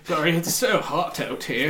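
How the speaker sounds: embarrassed chuckle through the words; sweaty banker apologising; flustered laughing apology. Acted. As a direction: laugh it off nervously. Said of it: "He goes".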